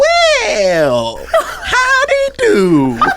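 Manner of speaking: very high, swooping, posh southern aristocrat accent. Listing the character voices they can do: Mister Peanut-style southern aristocrat. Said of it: "southern aristocrat like".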